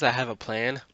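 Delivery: ominous quoted line, pressed out loud; stressed quote. Retold or imitated. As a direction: lean hard into I have a plan. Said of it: "when she says".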